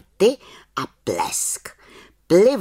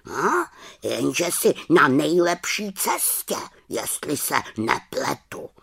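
raven voice; 4 semitones higher than usual. Acted. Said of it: "řekl Abraxas".

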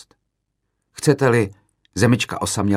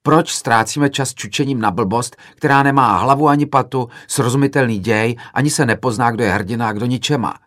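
indignant heckle; 4 semitones higher, 4 dB louder than usual. Retold or imitated. Student heckling the filmmaker about his film, retold indignation. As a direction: hurl the complaint at the director.

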